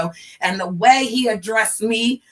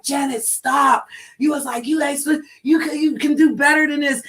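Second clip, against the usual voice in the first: imitating Bourne; 6 semitones higher than usual.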